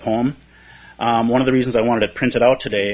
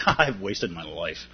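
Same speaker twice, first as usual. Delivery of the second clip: rueful smile; 5 semitones lower, 6 dB quieter than usual. Retold or imitated. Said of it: "with almost a smile".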